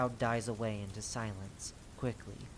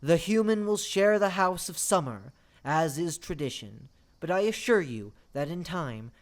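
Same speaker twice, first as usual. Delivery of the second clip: raised voice, starting loud and high, then easing; announcing; 4 semitones higher, 4 dB louder than usual. Acted. The lord tells all seasons about the guest, announcing. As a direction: proclaim it to the whole crowd.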